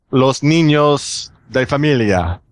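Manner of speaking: put-on slow Spanish in a gringo accent, veering Italian; Spanish drawn out with an American-Italian mock accent. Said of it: "gringo accent that threw me off".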